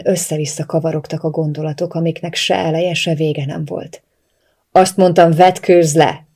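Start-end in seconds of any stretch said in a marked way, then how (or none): 4.7-6.3 loud, forceful repeated command; shouted order. A narrator's reading. Captor repeating an ignored order, shouting it. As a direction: shout it, out of patience. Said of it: "ordította újra".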